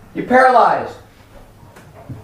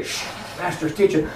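hushed, much softer reproof; shushing; 2 semitones lower, 10 dB quieter than usual. Acted. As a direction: quickly shush a noisy bystander. Crowd shushing the blind man.

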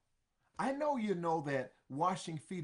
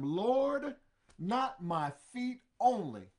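eager Peter; 4 semitones higher, 5 dB louder, slower than usual. Acted. Peter begging Jesus, loud urgent plea. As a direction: Lord called out loud, rest slow and urgent. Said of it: "Simon Peter saith unto him".

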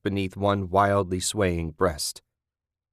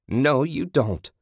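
higher, slowed shout of refusal; Kathy shouting; 6 semitones higher, slower than usual. A narrator's reading. Kathy stopping Julie, slow raised shout. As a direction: bark it out, drawn slowly. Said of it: "Kathy shouted".

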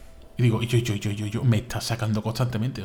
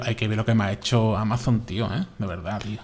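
laughing mock outrage. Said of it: "estoy indignadísimo".

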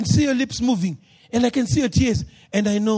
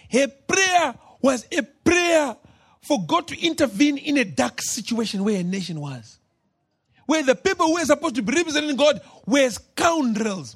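full-force preaching; 2 semitones higher than usual. Acted.

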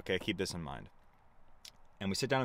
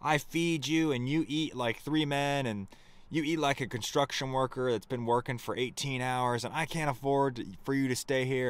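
raised, higher imitation of a furious host; hammed-up yelling, partly toned down; retelling her outburst in a half-yelled rant; mock screaming rant; 5 semitones higher than usual. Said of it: "She starts screaming like".

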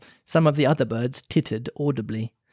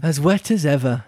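melancholy; 3 dB louder than usual. Acted. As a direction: say it sadly and wearily. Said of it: "said Alice in a melancholy tone".

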